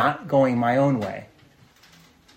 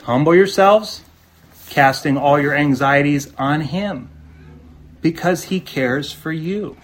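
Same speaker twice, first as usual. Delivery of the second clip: preaching at full force; 2 semitones higher, 5 dB louder than usual. Acted. Preaching climax.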